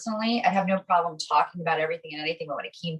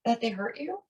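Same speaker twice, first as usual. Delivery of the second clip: amazed wonder; 4 semitones higher, slower than usual. Retold or imitated. Amazed at kind response.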